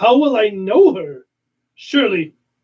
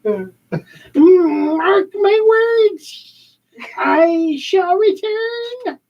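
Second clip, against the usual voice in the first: villain threat; 5 semitones higher, slower than usual. Acted.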